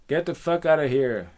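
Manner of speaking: forceful, irritated shout; angry rejection. Acted. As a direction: send the admirer packing. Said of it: "And he goes".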